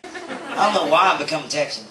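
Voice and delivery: a touch of Texan accent; lightly Texan-accented aside. Real, not acted. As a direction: slip slightly into a Texan twang. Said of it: "usually I don't have an accent".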